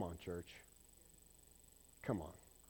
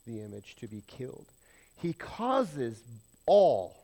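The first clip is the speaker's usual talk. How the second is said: scripture reading; 3 dB louder than usual. Acted. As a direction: read the verse with weight. Reads scripture aloud.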